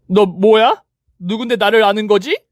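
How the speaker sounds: who are you, rival snaps; startled rival. Acted. Rival confused. (높고 날카롭게 묻는 상간녀)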